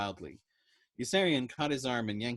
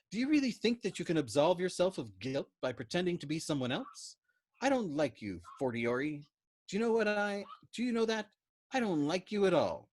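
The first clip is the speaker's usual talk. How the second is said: stern major; 7 semitones higher than usual. Acted. Major berates Yossarian.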